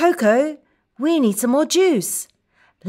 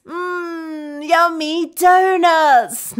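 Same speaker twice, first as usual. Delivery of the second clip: high, delighted yummy; lifted, eager relish; savoring delight; 4 semitones higher, slower than usual. Acted. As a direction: relish the treat for little kids. Relishing donuts for young learners.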